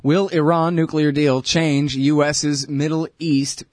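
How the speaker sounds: slow, punchy headline read; headline writer voice. Pretend. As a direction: announce it like a news headline. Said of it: "starting to talk like a Middle East Eye headline writer".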